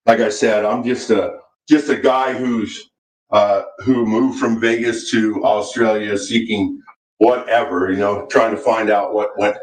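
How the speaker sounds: distant, off-mic voice; speaking from across the room; far from mic. Real, not acted. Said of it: "It sounds like you're talking across the room".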